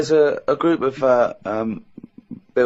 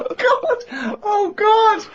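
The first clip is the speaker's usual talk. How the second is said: high squealing laugh-cry of disbelief; laughing groan; much slower than usual. Real, not acted. Listener howling with laughter at friend's story.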